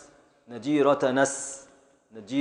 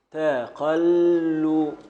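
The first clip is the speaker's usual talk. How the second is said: تقل stretched very slowly to show its beat; very slow scansion; much slower than usual. Shown as a demonstration. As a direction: draw تقل out as far as it goes. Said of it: "حركة، حركة، سكون".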